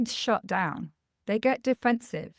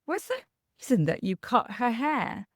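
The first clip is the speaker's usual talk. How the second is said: gently. Retold or imitated. Mum asking her daughter about the cut doll hair, gently. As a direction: gently coax the child to explain herself. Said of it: "So I said very gently".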